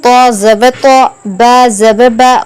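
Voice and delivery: slow, measured syllable-by-syllable recitation; Qaida spelling recitation. Shown as a demonstration. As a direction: chant each letter and vowel evenly, holding the endings. Spells out Arabic syllables for learners.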